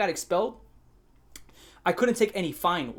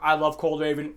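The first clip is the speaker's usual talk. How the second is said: imitated fan; 2 semitones lower than usual. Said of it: "people make YouTube videos like".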